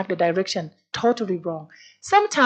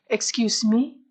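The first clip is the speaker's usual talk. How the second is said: polite reprimand. Retold or imitated. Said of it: "I reprimand in a very good manners".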